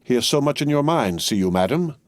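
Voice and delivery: smooth things over with madame; mildly conciliatory remark; pacifying. A narrator's reading. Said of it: "Jacques Three pacifically remarked".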